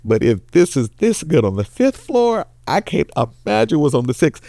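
woman's voice. Acted.

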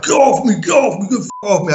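frantic shout to be let go; retold panicked yell. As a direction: yell it like you're being pinned to a wall. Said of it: "And he's like".

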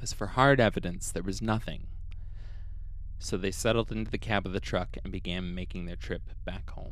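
calm, even storytelling read; podcast storyteller reading the case; story narration. A narrator's reading. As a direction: narrate the eerie account steadily.

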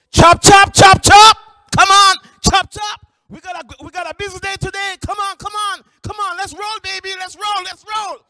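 high, booming hype, easing to quick urging; loud, high-pitched drill of encouragement; super loud supervisor. Retold or imitated. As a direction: imitate a hyped-up boss rallying the crew. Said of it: "she's just super loud".

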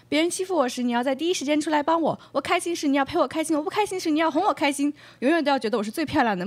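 lightly voiced pampered girlfriend listing her demands; a coy, bossy Mandarin-speaking date; 撒娇又霸道的女友; demanding Chinese bachelorette. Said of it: "I don't speak Chinese".

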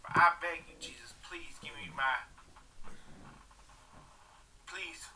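unvoiced whisper of a desperate plea; whispered begging. Real, not acted. Begging Jesus for his dreams, whispered. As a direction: beg in a breathless whisper.

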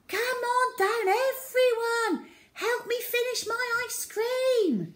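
put-on high excited girl's call. A narrator's reading. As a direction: summon the whole block down. Zoe calling kids down.

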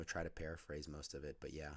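sick, hoarse lost voice; rough, strained hoarse voice. Real, not acted. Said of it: "my voice is like this because I've been sick".

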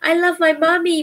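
high, loving little owl voice; baby owl. Acted. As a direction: coo it like the youngest owl. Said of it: "said Bill".

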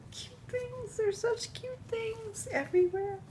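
high, soft cooing; softly squeaked cute things. Real, not acted. Cooing over gifts.

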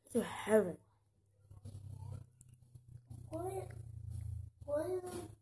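chewing; talking while eating chocolate; mouth full. Real, not acted. Seen 0: Holds bitten bar, lips closed, chewing between bites while speaking.

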